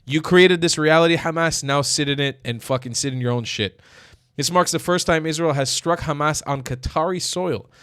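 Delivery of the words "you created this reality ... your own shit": mock angry threat. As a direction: spit it out as a final warning. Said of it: "It's like".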